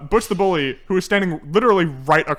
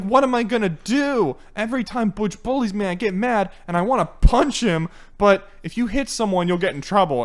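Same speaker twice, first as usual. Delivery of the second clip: lightly voiced fretting character, higher and louder; Cool Cat; 5 semitones higher, 4 dB louder than usual. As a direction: complain like a kids' movie hero. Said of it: "talking to the camera in his dream".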